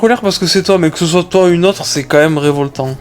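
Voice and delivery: lisping through a retainer; slight lisp, aligners in. Real, not acted. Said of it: "je zozote parce que j'ai les gouttières".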